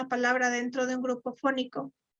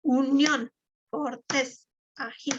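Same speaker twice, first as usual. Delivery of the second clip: "Unión, cortés, ají" with the final syllable of each word stressed; stress on last syllable; slower than usual. Shown as a demonstration. Teacher showing where to clap in "Unión, cortés, ají", stress on each final syllable. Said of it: "en donde tiene acento de voz".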